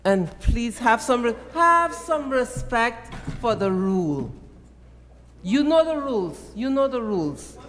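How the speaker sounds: scolding call to order. Real, not acted. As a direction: scold the member into silence. Speaker scolds interrupting member.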